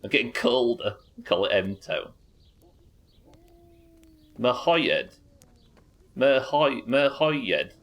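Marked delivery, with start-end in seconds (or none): 6.2-7.7 "Merhoyed" as mer-HOY-yed, after a false start; three-syllable attempt. Shown as a demonstration. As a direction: carefully sound out all three parts of "Merhoyed". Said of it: "it's three syllables".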